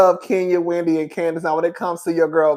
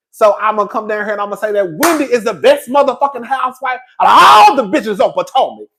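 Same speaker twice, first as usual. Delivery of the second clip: hammed-up provocation, louder at the end; over-the-top mock praise, swelling louder; extra stank; 4 dB louder than usual. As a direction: lay it on thick to rile them up. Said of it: "I put a little extra stank on it".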